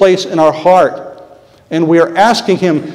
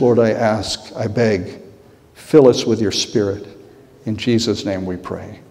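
earnest prayer. Real, not acted. Preacher praying for his people and himself, earnest prayer. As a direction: plead with God on the congregation's behalf.

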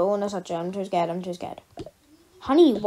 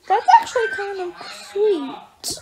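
laughing; 7 semitones higher than usual. Acted. Parent reacts while laughing.

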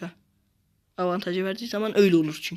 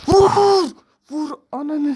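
shouted command; 9 semitones higher, 9 dB louder, much slower than usual. Real, not acted. Yelling at player to shoot.

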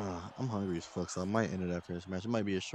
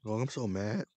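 voice cracking. Real, not acted. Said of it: "My voice cracked".

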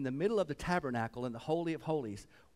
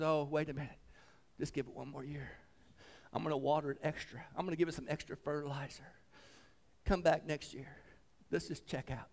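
softer, reasoning gardener; lightly acted humble appeal; gentle pleading; 4 dB quieter than usual. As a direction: quietly bargain for more time.

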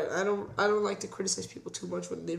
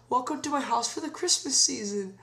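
a touch higher, cosy host voice; Foley as polite host; 5 semitones higher than usual. Retold or imitated. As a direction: welcome guests like a cheery dad. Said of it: "he go".

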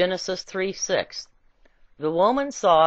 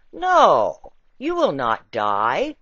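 serpent's voice; 3 semitones lower, 5 dB louder, much slower than usual. Acted. Serpent answers the woman.

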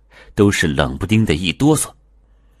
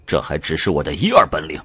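smug taunt; faster than usual. Acted. Coat man gloats over Liu, smug and quick. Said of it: "大衣男得意的一笑".

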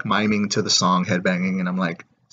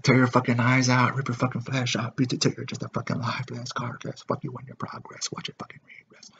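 reciting lyrics, fading down to a whisper; miming lyrics; 3 semitones higher, 5 dB quieter than usual. Shown as a demonstration. Miming a metal band's lyrics, fading to a whisper. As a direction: mouth the lyrics, trailing off to a breathy whisper. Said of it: "I'm pretty much miming".

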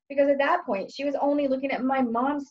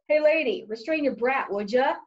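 blunt rude demand; 3 semitones higher than usual. Retold or imitated. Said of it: "You gotta finesse it".

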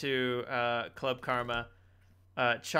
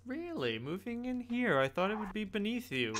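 sneering NPC; 8 semitones higher, 4 dB quieter than usual. Acted. GM voicing NPC Rutsufo sneer.

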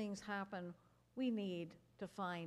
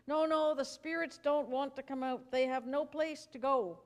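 loud, higher frantic no; frantic refusal; 5 semitones higher, 7 dB louder than usual. Acted. The sick man refuses Jesus, loud and frantic. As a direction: push back in a panic.

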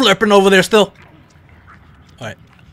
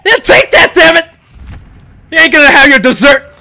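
triumphant taunt; 5 semitones higher, 4 dB louder than usual. Real, not acted. Taunts monsters after escaping.

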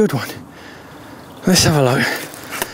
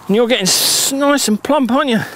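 fond pet talk; 4 semitones higher than usual. Real, not acted. Talking fondly to the fish.

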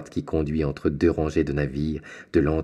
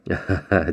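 laugh. Acted. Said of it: "dit l'armateur".

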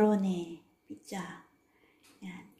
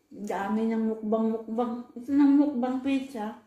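chewing between words; talking while eating. Real, not acted. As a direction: mouth partly full of pizza. Seen 4: Holds pizza slice at mouth while talking; chewing likely throughout.

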